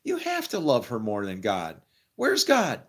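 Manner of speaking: a rabbi pointedly asking "Where's God?"; rabbi's question. Retold or imitated. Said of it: "And the rabbi would say".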